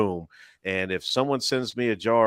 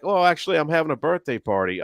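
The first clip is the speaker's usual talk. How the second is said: party host; 7 semitones higher, 3 dB louder than usual. Retold or imitated. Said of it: "They're like".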